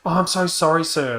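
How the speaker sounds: mock flustered apology to a stranger; apologetic stranger.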